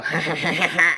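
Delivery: quick staccato villain laugh, put on; imitated laugh. Player imitating mages who trick you, mock laugh. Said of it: "And they go".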